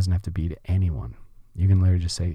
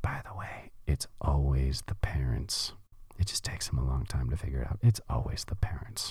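soft, hushed, confiding whisper; 5 semitones lower, 8 dB quieter than usual. Quoting a drunk TV psychologist's line to her patient: imitating a whisper. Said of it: "she just whispers to her".

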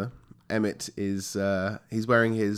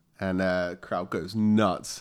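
plain

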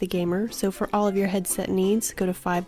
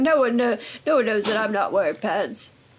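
put-on old man voice; 2 semitones higher, 3 dB louder than usual. Retelling what a friend said about not wearing pants: imitating Dougie as an old man. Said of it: "your impression of Dougie sound like an eighty-year-old man".

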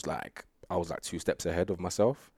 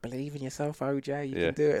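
put-on higher Cockney accent; 8 semitones higher than usual. Imitating a first coach's encouraging words: Cockney accent imitating Kenny. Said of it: "that's a great Cockney accent".

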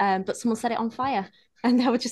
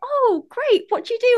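very high, feigned naive, innocent, clueless chirp; 12 semitones higher, 4 dB louder than usual. Retelling a chat with a woman met on the street, in a put-on naive tone. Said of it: "trying to be like naive and stuff".

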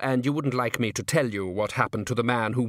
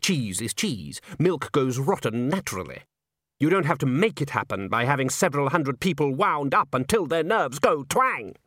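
ordinary delivery, nothing marked

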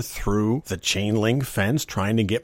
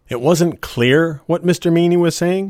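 ordinary talk, nothing marked

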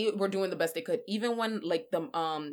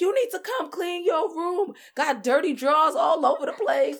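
loud, high hollering; 10 semitones higher, 7 dB louder than usual. Retelling being called home, imitating her yelling. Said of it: "I'ma need you not to be screaming my".

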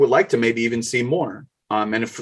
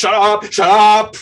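put-on screaming villain voice, higher and louder; 11 semitones higher, 9 dB louder than usual. Retelling the bomb scene where the Riddler screams at his hostage: imitating the Riddler screaming. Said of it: "screaming, he's like".

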